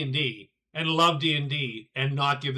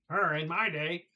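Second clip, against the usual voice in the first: a hint of a creaky old man. Shown as a demonstration. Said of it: "it's old man voice".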